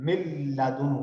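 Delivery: من لدنہ slow, n merged into lam without nasal hum; recited without ghunna. Shown as a demonstration. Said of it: "اس میں غنہ بھی نہیں آیا". (من لدنہ بغیر غنہ کے آہستہ)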